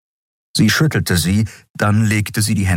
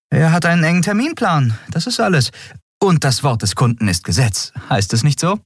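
put-on higher, brisk young woman's voice; young captain Andriel; 10 semitones higher than usual. A narrator's reading. Captain explains to her crew, lively and quick. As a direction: lift it up and push on briskly.

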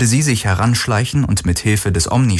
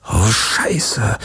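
whispered curse, sinking realisation; whispered dismay; 2 semitones higher than usual. Acted. Galen realises what the enemy knows, whispering in dismay.

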